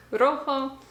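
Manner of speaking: rojo with a rolled, trilled Spanish R. Shown as a demonstration. Vlogger showing viewers the Spanish R, rolled R in rojo. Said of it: "you have the trill R like".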